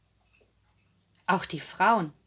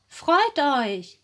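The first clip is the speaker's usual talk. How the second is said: higher-pitched, excited narrated call; 6 semitones higher, 4 dB louder than usual. A narrator's reading. Women bringing news to the grieving disciples, calling out. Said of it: "riefen die Frauen".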